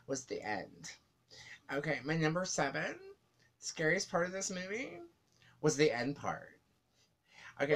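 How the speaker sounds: a light take on Amanda; Amanda impression. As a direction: mimic her repeated phrasing lightly. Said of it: "quick impression of Amanda".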